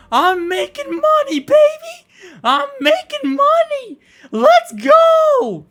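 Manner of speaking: high, drawn-out screams of glee; ecstatic celebration yell. Pretend. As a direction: scream like you hit the jackpot. Over-the-top money celebration.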